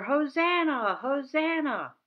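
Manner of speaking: high, loud praise cries; shouting together. Shown as a demonstration. Teacher shouting along with the kids, loud joyful cries. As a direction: keep the shout going with the kids. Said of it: "Let's all shout".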